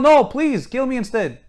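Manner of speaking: mock-screamed plea; acted-out scream. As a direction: imitate someone begging at the top of their voice. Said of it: "Scream at them".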